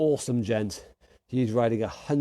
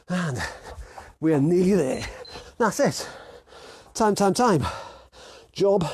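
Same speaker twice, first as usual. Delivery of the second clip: lifted, energetic fitness instructor calls; workout coaching; 3 semitones higher than usual. Real, not acted. Coach urging viewers through the last boxing round, energetic calls. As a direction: call out encouragement over the exercise.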